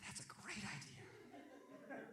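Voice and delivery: soft, very slow mock admiration; sarcastic agreement. Bleeding kid answering brother's advice, sarcastic. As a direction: stretch it out in hushed, sarcastic wonder.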